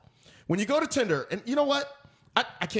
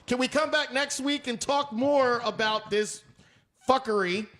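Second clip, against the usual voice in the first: excited; 6 semitones higher, slower than usual. Retold or imitated. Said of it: "They said".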